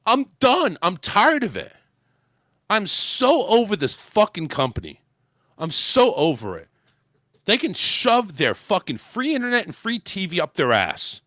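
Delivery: fed-up, emphatic venting; really pissed off. Real, not acted. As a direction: vent real exasperation with the company. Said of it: "that's the reason why I'm pissed off today".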